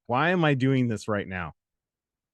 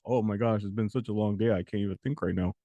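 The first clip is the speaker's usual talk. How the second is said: low, soft, worn-out sigh of a voice; weary complaint; 5 semitones lower, 4 dB quieter than usual. Retold or imitated. Tired person groaning about their long day. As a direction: drag it out like you're exhausted. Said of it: "have you said that to yourself".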